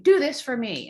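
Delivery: mock demanding child. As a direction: order it like a pushy kid.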